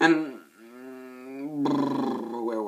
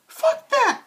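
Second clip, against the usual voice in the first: high, loud outburst; defiant shout; 5 dB louder than usual. Retold or imitated. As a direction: yell it in defiance. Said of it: "Danny Glover's like".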